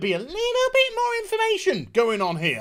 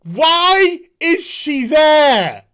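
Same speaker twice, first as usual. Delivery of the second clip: laughing disbelief; 3 semitones higher, 8 dB louder, much slower than usual. Real, not acted. Laughing at a plot hole.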